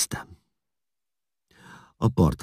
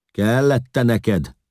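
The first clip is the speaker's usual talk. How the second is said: high, drawn-out jeer; mock the sufferer loudly and slowly; taunting; 9 semitones higher, 6 dB louder, much slower than usual. A narrator's reading. Huns jeer at the crucified man, taunting and high.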